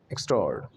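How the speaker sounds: एक्स्ट्राऑर्ड as falling ik-STROARD, ending on d; merged first part. Shown as a demonstration. Teacher showing the sound by spelling, merged syllable. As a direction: land on the d of एक्स्ट्राऑर्ड, then stop. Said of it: "gap देगा डी".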